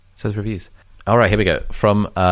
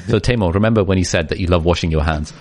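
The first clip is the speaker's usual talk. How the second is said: reading aloud in a mock French accent; put-on French accent, gently comic; fake French accent. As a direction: take the piss out of a French accent. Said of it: "an impressive French accent".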